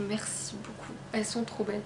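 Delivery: soft thanks. Real, not acted. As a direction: thank her gently, almost under your breath. Thanking the author sincerely. (remerciement doux et sincère)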